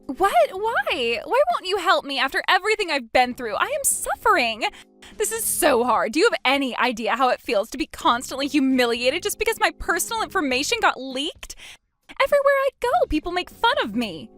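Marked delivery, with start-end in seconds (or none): 0.1-4.6 high desperate wail. Acted. Ex-husband pleads desperately with his ex-wife. 12.2-14.3 high, loud anguished outburst; anguished cry. Acted. Humiliated ex-husband cries out to his ex-wife.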